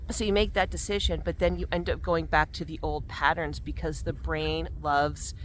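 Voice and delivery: ordinary talk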